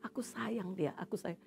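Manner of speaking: hushed voice of gentle love; tender, soft. Retold or imitated. Holy Spirit tells her of love for the girl, tender and soft. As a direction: say it softly, as a quiet inner prompting.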